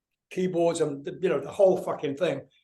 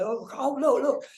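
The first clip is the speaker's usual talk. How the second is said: high-pitched imitation of a giddy child; excited little kid; 8 semitones higher than usual. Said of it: "like a little kid going".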